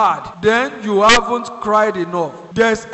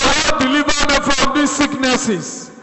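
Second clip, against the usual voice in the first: prayer of deliverance; 3 semitones higher than usual. Shown as a demonstration. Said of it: "Say to God".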